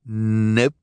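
curt, haughty refusal; dismissive Esme. Acted. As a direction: toss it off carelessly.

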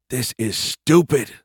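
complain, leaning slowly on the words; annoyed complaint. Acted. Private griping in a shallow crater, annoyed.

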